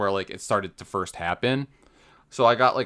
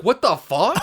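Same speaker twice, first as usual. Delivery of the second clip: mock outraged; 9 semitones higher, 4 dB louder than usual. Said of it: "was so angry at this".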